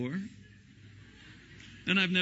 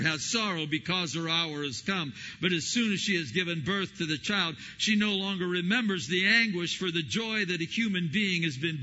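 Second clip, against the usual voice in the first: scripture reading; 3 semitones higher than usual. Acted. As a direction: read the verse with building fervour. Reads Jesus's words in sermon.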